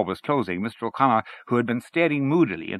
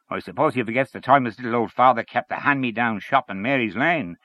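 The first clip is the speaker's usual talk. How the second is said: Henchy ranting; 5 semitones higher than usual. Acted. Henchy rants in read story.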